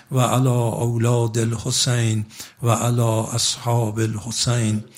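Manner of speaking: slow, measured prayer chant; slow Arabic prayer recital; ziyarat recitation. Acted. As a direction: recite the salutation slowly and devoutly. Recites ziyarat salutation after sermon.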